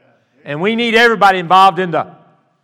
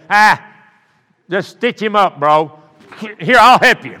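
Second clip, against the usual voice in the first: breezy nonchalant; 3 semitones higher, 6 dB louder, slower than usual. Retold or imitated. Jaded parent of many kids.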